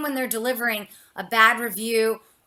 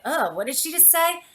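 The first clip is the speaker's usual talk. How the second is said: offended listener; 6 semitones higher than usual. Retold or imitated. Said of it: "And somebody's like".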